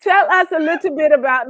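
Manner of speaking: mock British slipping into Jamaican; muddled British-Jamaican accent; accidental Jamaican accent. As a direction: drift into an amateur Jamaican lilt. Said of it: "now I'm going into Jamaican".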